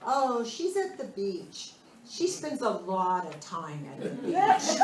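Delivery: slow, stretched-out mock explanation; imitating daughter. Daughter telling a caller where mom is, lightly imitated. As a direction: lightly act out a drawn-out excuse. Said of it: "And she goes".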